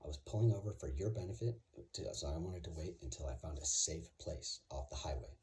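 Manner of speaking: dead serious and matter-of-fact; completely straight. Shown as a demonstration. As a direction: say it with a totally straight face. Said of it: "and say it completely straight".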